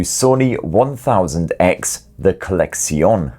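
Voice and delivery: slow, mock-posh French "Collection" ending in a nasal "-sion"; "Collection" with a French nasal ending, drawn out slowly; posh French accent. Shown as a demonstration. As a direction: say "the Collection" like a French fashion house. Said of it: "I don't know why I keep saying it that way".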